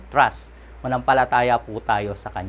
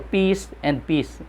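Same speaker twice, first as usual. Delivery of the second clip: Peace and peace drawn out slowly, each peace weighted; preacher slowly stressing Peace and peace to the congregation; slow emphasis; 3 semitones higher, 3 dB quieter, much slower than usual. Shown as a demonstration. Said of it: "when something is to be emphasized".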